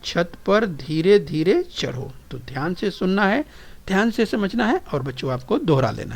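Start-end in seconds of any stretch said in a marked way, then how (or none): 0.0-2.1 slow repeat. Shown as a demonstration. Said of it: "तो चलिए बोलिए".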